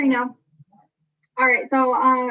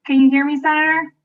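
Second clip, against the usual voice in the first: raised voice, calling out; louder call; 6 dB louder, faster than usual. Real, not acted. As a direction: call out so they hear you. Calling louder to unresponsive senator.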